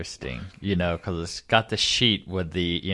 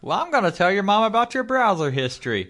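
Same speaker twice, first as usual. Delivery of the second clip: high mocking babysitter; 12 semitones higher, faster than usual. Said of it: "And she's like".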